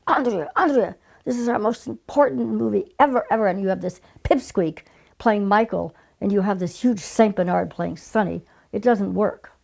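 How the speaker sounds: half-hearted impression of Charlie scolding; mild imitation of angry boss. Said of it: "I can't do Charlie's accent".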